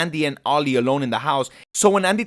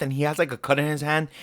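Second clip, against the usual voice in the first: usual speaking voice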